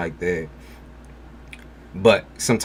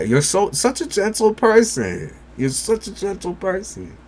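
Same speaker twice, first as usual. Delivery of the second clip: cooing; 12 semitones higher than usual. Real, not acted. Praising the gentle viewer in a high coo.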